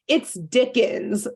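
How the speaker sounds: slow, deadpan it's Dickens; flat glaring reply. Retold or imitated. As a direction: say it with a glare, slowly. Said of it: "Rolly glares and just says".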